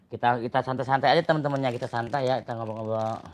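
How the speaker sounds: talking around a cigarette in mouth. Real, not acted. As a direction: speak while smoking a cigarette. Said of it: "Maaf saya sambil ngerokok ya". (bicara sambil merokok)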